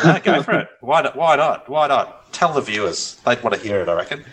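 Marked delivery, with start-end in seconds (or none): 0.0-3.2 eager urging. Real, not acted. Urging co-host to tell story.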